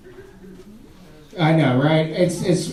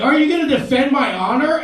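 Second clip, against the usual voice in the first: higher, laughing damsel plea; mock pleading woman; 6 semitones higher than usual. Woman asking the comic to defend her, higher and pleading. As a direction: beg him like a damsel. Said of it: "she was like".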